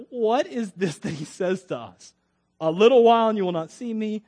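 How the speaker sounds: dramatized reading of puzzled disciples; emphatic, questioning scripture delivery. Acted. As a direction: read it aloud with loud peaks on the repeated phrase.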